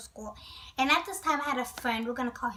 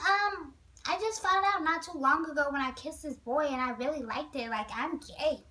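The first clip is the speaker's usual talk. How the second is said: put-on girly Nate voice. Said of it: "He sounded like a little girl".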